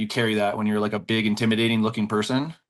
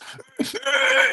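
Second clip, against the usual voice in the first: high laugh. Real, not acted. Laughs retelling the hug.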